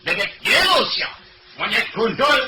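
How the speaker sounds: taunts building from plain to a high, laughing shout; escalating taunt. Acted. Passenger trades insults with the other man, building to a laughing shout. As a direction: egg each other on until you're yelling. Two men trading insults.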